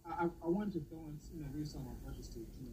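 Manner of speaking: distant off-mic voice; talking from far from the mic; far away. Real, not acted. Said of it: "You sound far away".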